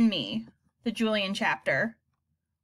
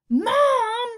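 put-on high, louder boy's protest; embarrassed cry; 9 dB louder than usual. A narrator's reading. Son stopping his mother, embarrassed protest. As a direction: hiss out the embarrassment. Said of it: "clenching my teeth".

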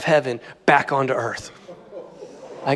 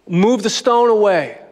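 measured, commanding retold order; solemn command; 2 semitones higher than usual. Preacher voicing Jesus at the tomb, commanding. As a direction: give the order firmly, falling at the end.

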